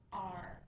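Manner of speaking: R with the tongue back and lifted; American R, tongue pulled back; retroflex R. Shown as a demonstration. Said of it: "let's all try that together".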